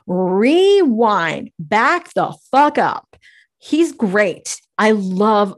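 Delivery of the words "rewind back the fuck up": mock exasperated retort. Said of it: "And I'm like".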